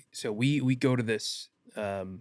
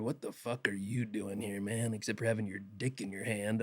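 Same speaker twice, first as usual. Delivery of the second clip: crude joking greeting; 6 dB quieter than usual. Retold or imitated. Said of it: "and I hear".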